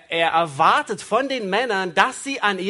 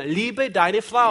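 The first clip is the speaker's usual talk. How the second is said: slow command; much slower than usual. Acted. Interpreter slows the command.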